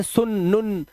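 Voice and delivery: सुन, नुन cut to a short u; सुन, नुन said short where oo belongs; wrong short vowel. Shown as a demonstration. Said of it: "ये मत पढ़ना".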